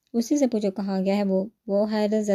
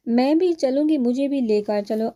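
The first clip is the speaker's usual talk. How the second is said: higher, louder anxious plea; urgent insistence; 4 semitones higher, 4 dB louder than usual. Acted. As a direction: insist on being taken along, upset. Distraught woman insists on coming.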